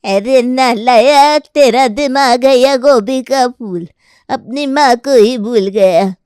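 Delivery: lightly voiced grumbling grandmother, slow start; a cranky old mother scolding her son. Grandmother scolding her forgetful son, lightly voiced.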